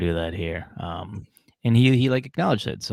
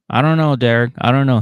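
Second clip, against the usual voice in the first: mock hesitant girlfriend; 3 semitones higher, 7 dB louder, faster than usual. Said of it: "She's like".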